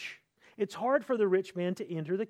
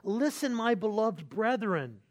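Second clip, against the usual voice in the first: Listen eased in, my beloved brethren slowed and gentle; pastoral tenderness; slower than usual. Retold or imitated. James addressing beloved brethren with caring, tender warmth. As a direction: say it like a shepherd who loves his flock. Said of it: "you see his pastoral heart".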